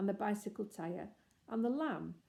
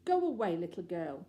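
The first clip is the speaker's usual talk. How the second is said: loud, sharp command to leave; terrible voice; 5 dB louder than usual. Acted. The grown-up lamb ordering Anthea away, stern. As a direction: drive the girl off, stern. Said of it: "in a terrible voice".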